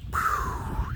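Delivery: long unvoiced puff of air; awed exhale. Real, not acted. Vlogger taking in the mountain view, awed exhale. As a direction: let out a big "phew" of wonder.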